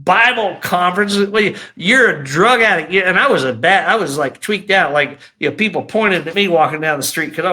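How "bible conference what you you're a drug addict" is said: raised, dismissive put-down; scornful inner voice. Retold or imitated. Inner voice mocking a drug addict's conference plan, scornful. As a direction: play the jeering voice in his head. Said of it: "the other voice is like".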